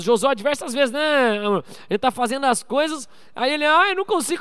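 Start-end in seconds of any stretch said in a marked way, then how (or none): 3.7-4.4 mock crying. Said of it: "começa a chorar".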